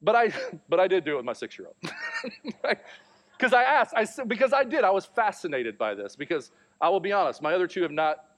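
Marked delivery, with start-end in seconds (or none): 1.8-2.6 a real laugh bursting out high; high burst of laughter. Real, not acted. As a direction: let a high laugh escape. Laughs at his own story.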